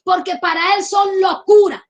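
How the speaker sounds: fiery preacher exclaiming; preaching shout. Real, not acted. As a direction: shout the point home. Preacher's climax.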